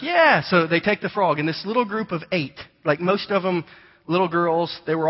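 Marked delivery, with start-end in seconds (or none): 0.0-0.4 put-on eager kids' yes. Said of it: "And they're like".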